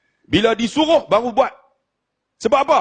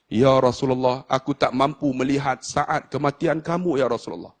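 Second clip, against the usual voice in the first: a hint of grieving angel; 4 semitones lower than usual. Jibril telling the Prophet he cannot watch him die, sorrowful. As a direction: speak as one who cannot bear to watch.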